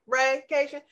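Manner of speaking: "raycation" with a long A, like "ray". Shown as a demonstration. Explaining her coined word "raycation", saying the long A. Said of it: "put that accent over that E like Thai".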